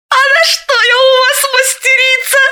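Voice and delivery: high, playful flirting question; coquettish. A narrator's reading. Galina coyly asks her friend what she means, coquettish. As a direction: tease it out coyly. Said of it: "Галина кокетливо осведомилась".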